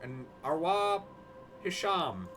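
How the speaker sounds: put-on a light Irish accent reading the name. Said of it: "didn't even mean to read that in Irish accent".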